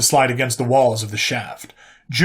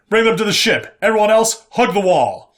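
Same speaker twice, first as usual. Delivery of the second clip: loud, higher command bark; barked orders; 8 semitones higher, 3 dB louder than usual. Acted. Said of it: "barked orders".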